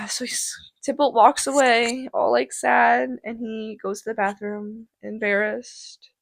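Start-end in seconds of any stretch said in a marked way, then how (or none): 3.2-6.1 hushed whisper. A narrator's reading. Narrating Tybalt's sad exit.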